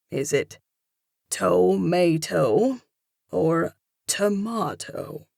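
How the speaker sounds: put-on slow, drawn-out Italian accent. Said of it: "He finishes in an Italian accent".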